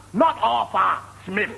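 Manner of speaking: high, slow "Arthur Smith" as Arfur Smiff; mimicked F for TH. Interviewer mocking applicant, "Arthur Smith" as Arfur Smiff.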